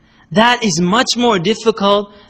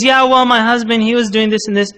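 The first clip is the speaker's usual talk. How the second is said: complaining wife; 5 semitones higher than usual. Retold or imitated. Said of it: "And she goes".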